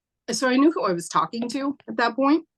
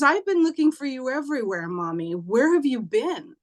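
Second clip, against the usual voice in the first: put-on little boy voice; 4 semitones higher than usual. Child voiced in mother's story.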